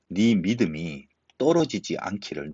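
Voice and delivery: "네 믿음이 떨어지지 않기를" said slowly, each word weighed; slow down and dwell on "떨어지지 않기를"; slow emphatic repeat. Shown as a demonstration. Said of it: "얼마나 귀한 말씀입니까?".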